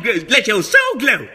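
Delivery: ordinary talk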